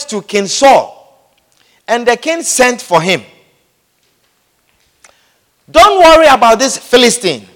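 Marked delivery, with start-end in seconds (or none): 5.7-7.5 confident reassurance. Retold or imitated. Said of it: "David told Saul".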